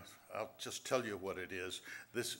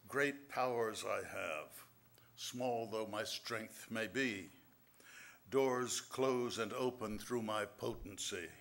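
slow, measured recital of verse; poem reading; slower than usual. Acted. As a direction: read each line like a riddle to savour. Reads his riddle poem.

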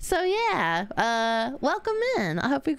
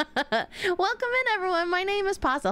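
cute anime streamer; 6 semitones higher than usual. Acted. Stream intro greeting.

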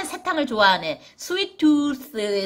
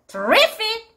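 terrific with RIF leaping up high; second-syllable stress; 9 semitones higher, much slower than usual. Shown as a demonstration. Teacher setting two lookalike words apart, terrific stressed high on "RIF". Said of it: "리의 강세가 있어서".

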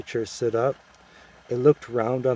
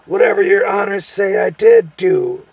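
high, loud, frightened little creature; squealing gnome; 10 semitones higher, 11 dB louder than usual. A narrator's reading.

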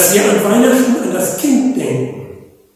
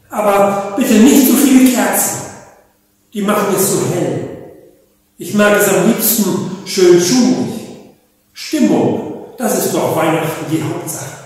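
mild complaining owl; 2 semitones higher than usual. Acted. Owl complains to the animals: mildly whiny. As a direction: grumble a little about the candles. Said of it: "Sie beschwerte sich gleich".

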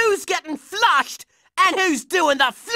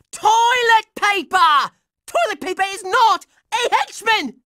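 exasperated yell; 3 semitones higher than usual. Acted. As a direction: spell it out in outrage. Exasperated at enemies.

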